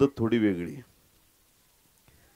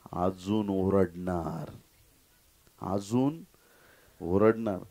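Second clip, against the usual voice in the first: stubborn defiance; 7 semitones lower, 7 dB quieter, much slower than usual. Acted. Bartimaeus defiantly vows more shouting.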